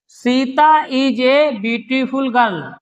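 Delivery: each word spaced out very slowly for students to copy; slow dictation. Shown as a demonstration. Teacher dictating the example sentence to the class, very slow. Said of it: "देखिए".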